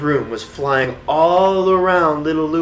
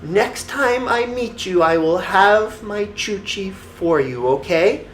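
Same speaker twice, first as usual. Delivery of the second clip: put-on pleading little boy; 6 semitones higher than usual. A narrator's reading.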